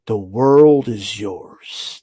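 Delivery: low, very slow movie-villain line; mock Scarface line. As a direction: savor it like a Scarface quote. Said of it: "turned into Tony Montana".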